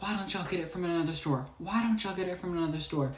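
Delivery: rapid-fire mock complaint; retold rant. Customer going off at store staff, quick retold rant. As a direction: rattle off an imitated angry demand. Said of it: "going off and really mad".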